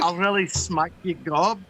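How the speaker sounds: light mock Scottish accent. Teasing friends with gob slang, Scottish accent. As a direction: put on a Scottish burr. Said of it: "that's like Scottish".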